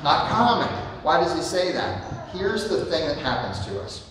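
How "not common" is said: NOT COMMON punched higher and louder; emphatic answer. Acted. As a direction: land hard on "common" with a falling tune.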